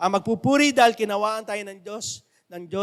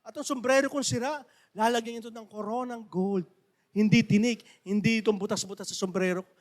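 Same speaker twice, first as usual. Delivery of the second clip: joyful Mamberto; 4 semitones higher than usual. Retold or imitated. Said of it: "Sabi niya".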